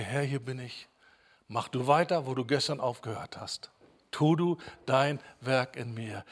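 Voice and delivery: quiet prayer. Retold or imitated. Preacher voicing a believer's morning prayer, hushed and soft. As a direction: pray it softly, almost to yourself.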